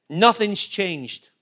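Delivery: slow, low and weighty; slow low assurance; slow emphasis. Real, not acted. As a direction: let each word land slowly. Preacher slowing for emphasis.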